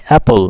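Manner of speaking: "অ্যাপল" with the beat on "অ্যাপ"; stress on অ্যাপ. Shown as a demonstration. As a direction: hit the first syllable "অ্যাপ" in "অ্যাপল". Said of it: "অ্যাপ বলার সময় তোমরা হাতে". ("অ্যাপল"-এর "অ্যাপ"-এ জোর)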